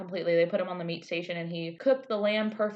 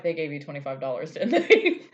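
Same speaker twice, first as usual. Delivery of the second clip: mock Gordon; 2 semitones lower, 5 dB louder than usual. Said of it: "Gordo's like".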